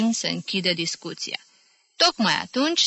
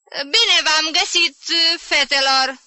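higher, slow, grandly gallant tipsy gent; gallant greeting; 9 semitones higher, 4 dB louder, slower than usual. A narrator's reading. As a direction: greet the ladies with a flourish. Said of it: "salută galant domn Popescu". (salut galant, teatral)

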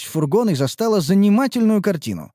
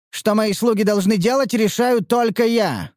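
curt cutting reply; 7 semitones higher than usual. Acted. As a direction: cut them off flatly. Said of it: "отрезал Харан".

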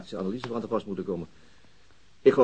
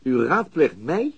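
slow, higher, louder disbelief; incredulous; 8 semitones higher, 5 dB louder than usual. Acted. Officer asking chief about his own promotion, incredulous. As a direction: spell out the absurdity slowly.

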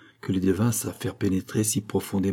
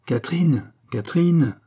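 a raised call to someone out of sight; 7 semitones higher, 4 dB louder than usual. A narrator's reading. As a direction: call her name, higher pitched. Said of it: "elle appela". (appel à voix haute)

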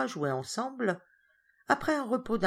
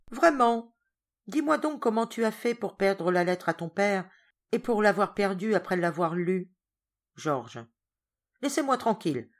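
stern governess. Acted. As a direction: put the boy in his place. Governess scolding Georges.

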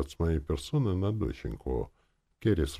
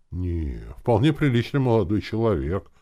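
warmly insistent, higher and louder; heated defence; 7 semitones higher, 6 dB louder than usual. A narrator's reading. Uncle defending the young chief, heated. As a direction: jump in to stand up for him. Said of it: "горячо вступился за меня".

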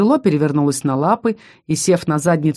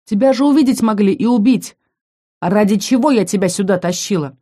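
angry scolding; 3 semitones higher than usual. Acted. Heroine angrily scolds the reckless little dragon. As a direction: tell him off sharply. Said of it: "И тут я рассердилась".

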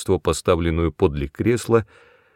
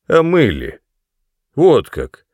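higher, louder mock of her voice; mocking imitation; 5 semitones higher, 6 dB louder, slower than usual. Son mimicking his mother to mock her. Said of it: "передразнил он её".

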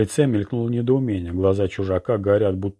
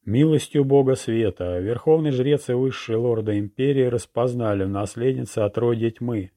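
town crier; 3 semitones higher than usual. Acted. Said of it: "Звонкий голос глашатай подхватили".

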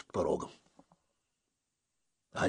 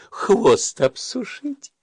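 slow pleading; 12 semitones higher, 7 dB louder, slower than usual. Acted. Лиса просится обсушиться.

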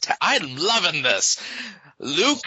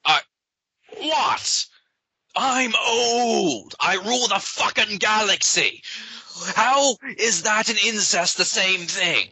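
cold rasping evil emperor; 6 semitones higher than usual. Acted. Emperor protesting, voice rasps.

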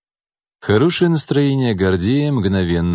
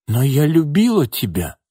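stunned woman; 6 semitones higher than usual. A narrator's reading. Nina stunned.

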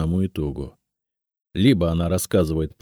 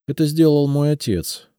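сдаваясь; 8 semitones higher, 4 dB louder than usual. A narrator's reading. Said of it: "сдалась, наконец".

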